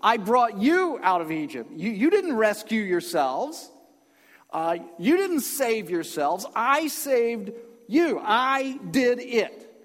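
"I" stretched high and loud against "you"; slow, emphatic declaration, punching "I saved" and "I did"; stress on I. Acted. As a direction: speak as God, slowly hammering every "I". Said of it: "The emphasis is on him".

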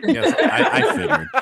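laughing, high burst then settling. Real, not acted. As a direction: laugh it off, amused. Laughs at the jab.

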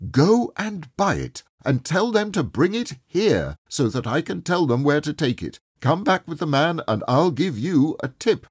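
put-on excited old man sending a boy for the turkey; eager. A narrator's reading. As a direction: send him off in a happy rush.

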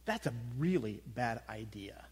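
whispered, nervous protest; worried whisper. Retold or imitated. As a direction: hiss it like a reluctant prophet. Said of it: "And Jeremiah's like going".

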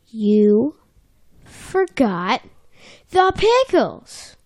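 slow, drawn-out gotcha; mock accusation. Bubble Bass accusing SpongeBob, hammed-up slow gotcha. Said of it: "he's like".

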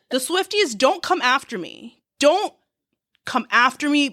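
high, laughing don't come after me; mock plea to a singer's fans. Real, not acted. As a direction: beg the fans off through laughter. Pleading playfully to fans.

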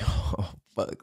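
retold soft, sinking whisper; dreading whisper. Hearing it is the sheriff, dreading whisper. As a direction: let it out under your breath.

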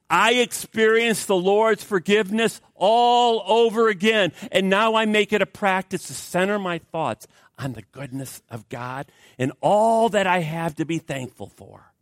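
excited testimony. Retold or imitated. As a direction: lift it with her excitement. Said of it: "the woman got very excited".

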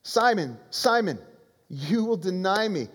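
lightly voiced earnest warning; Jesus warns Simon. Jesus pleads with Simon, a hint of urgency. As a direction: call his name, then press it home. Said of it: "And so he says".

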